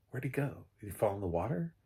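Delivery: ordinary delivery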